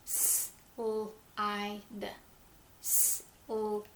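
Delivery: "S-L-I-D" stretched into separate sounds; teacher sounding out for listeners; slow sounding out. Shown as a demonstration. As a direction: sound the word out slowly, one sound at a time. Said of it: "Close your eyes and listen".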